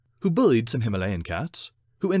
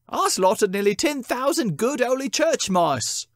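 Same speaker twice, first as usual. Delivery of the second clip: boasting cat; 4 semitones higher than usual. Acted. Cat confesses evil deeds.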